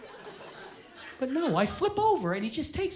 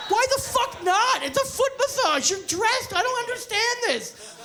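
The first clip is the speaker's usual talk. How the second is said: mock outrage; 10 semitones higher, 4 dB louder than usual. Comic outrage at the crowd.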